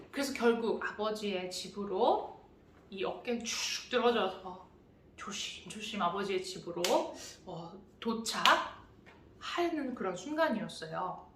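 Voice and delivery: soft, heavy storytelling of the shamed return; quiet and dejected. A narrator's reading. Pastor telling children of the son's shamed return, softly and dejectedly. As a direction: let the voice sag with each step home. Son trudging home ashamed.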